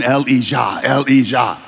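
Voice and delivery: "Elijah" said the Hebrew way, el-ee-JAH; Hebrew pronunciation. Acted. Crowd declaring the Lord is God, "Elijah" pronounced el-ee-JAH. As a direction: repeat "Elijah" as el-ee-JAH, like a restrained chant. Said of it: "They're going".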